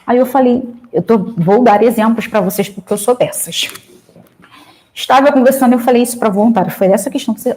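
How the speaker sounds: normal talking voice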